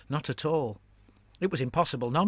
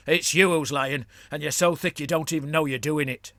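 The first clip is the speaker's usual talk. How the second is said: goblin Gurmlis, probing; 3 semitones higher, 5 dB louder than usual. Acted. Gurmlis challenging the scout boss, sly goblin voice. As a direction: press the scout with mock confidence.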